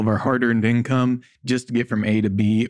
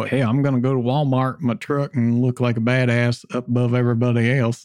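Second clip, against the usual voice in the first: light put-on Southern US accent; mock a Southern truck guy in a Southern accent. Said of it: "that's my Southern accent there".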